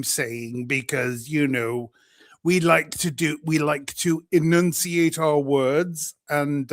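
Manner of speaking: lightly put-on plummy British statesman's accent; Winston Churchill accent. Streamer playing up Britishness for American viewers, mock Churchill accent. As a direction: enunciate each word in a mock old British accent. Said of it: "my best Winston Churchill accent".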